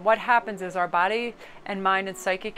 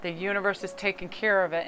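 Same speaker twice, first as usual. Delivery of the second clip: a hint of a Boston accent; slight accent; 3 dB quieter than usual. Real, not acted. Tarot reader reassuring viewers the universe provides, slight Boston accent. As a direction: let a Boston accent slip in lightly. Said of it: "I just put on a wor-, uh, an accent".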